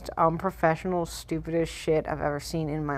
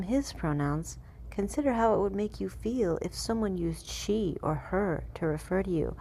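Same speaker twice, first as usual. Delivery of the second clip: lightly put-on official reading, pitched up; mock fact-sheet reading; 3 semitones higher than usual. Reading a government fact sheet to viewers in a lilting mock-earnest voice.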